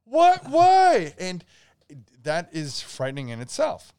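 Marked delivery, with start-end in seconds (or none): 0.1-1.1 very high, loud shocked squeal. Retold or imitated. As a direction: squeal in disbelief at the gore. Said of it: "and you're like".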